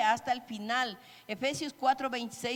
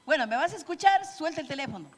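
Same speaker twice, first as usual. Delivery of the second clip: sharp, higher and louder, like a fed-up spouse; demanding scold; 4 semitones higher, 4 dB louder, faster than usual. Retold or imitated. Spouse demanding attention from partner on phone, sharp scold. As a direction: bark it at someone glued to their phone. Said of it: "pero si le grita".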